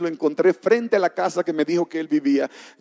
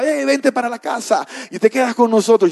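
higher-pitched, imitated eager invitation; friendly calling out; 5 semitones higher than usual. Church members inviting the new brother home, calling out eagerly. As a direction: act out hailing someone over.

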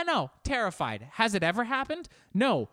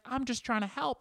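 higher, wounded little plea; a hint of a sulky phone assistant; hurt voicemail lady; 8 semitones higher than usual. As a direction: sound like a nice lady whose feelings got hurt. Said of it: "And she's like".

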